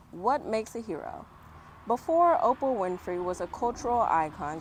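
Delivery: lively read-aloud voice; story reading. Acted. Reading the back cover to the kids, bright read-aloud. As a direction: read it out like a book blurb.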